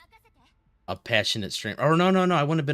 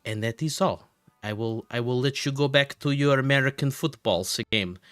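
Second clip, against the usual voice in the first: put-on Russian accent; 3 semitones higher than usual. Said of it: "I started talking in a Russian accent".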